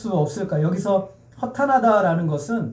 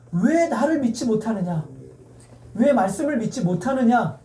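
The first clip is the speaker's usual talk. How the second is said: acted rebuke, slightly raised pitch; 예수님; 3 semitones higher than usual. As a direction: gently reproach them for not believing. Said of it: "라고 꾸짖으시는 거예요".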